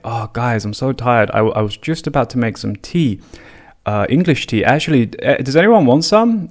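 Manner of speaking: hammed-up polite host; overfriendly offer. Offering the police English tea, eager and rising. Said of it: "And I said to them".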